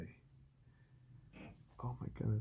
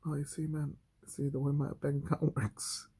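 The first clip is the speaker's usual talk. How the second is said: higher, put-on pleading voice; mock whiny excuse; 5 semitones higher than usual. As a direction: whine like a broke moocher. Mocking an excuse maker.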